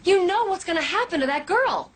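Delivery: high-pitched, urgent reproach; heated accusation. Acted. Officer confronting boss about a girl's danger, heated. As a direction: confront them, voice pitched right up. Arguing over a child's safety.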